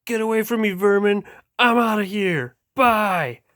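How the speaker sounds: high, haughty little boat voice; snooty toy boat. Acted. Spoiled tugboat snubbing his chasers, high and haughty. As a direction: sneer at them in a high voice.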